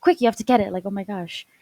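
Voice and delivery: loud pleading cry to mom; a child begging mom to save the hat, loud; begging shout. Retold or imitated. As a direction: beg her urgently, voice jumping up. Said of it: "I was begging my mom to save it".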